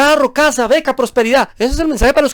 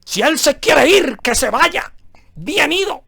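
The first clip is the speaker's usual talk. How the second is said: higher, slow, dismissive parody of the preacher; higher mocking preacher voice, breezy; 5 semitones higher, slower than usual. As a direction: toss off "si Él se quiere ir" like a flippant preacher. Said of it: "viene esta predicadora y le dice".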